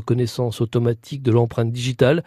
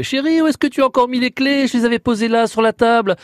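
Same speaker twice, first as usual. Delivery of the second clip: high raised voice, exasperated; calling out; 9 semitones higher than usual. Acted. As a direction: shout across the house for the keys. Husband calls to wife about keys.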